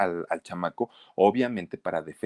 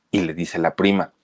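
plain reading voice

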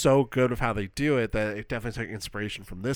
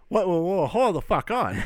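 high, louder mock outburst of shock; stunned disbelief; 8 semitones higher, 4 dB louder than usual. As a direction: replay the jolt of the twist, pitched up. Retelling shock at twist ending.

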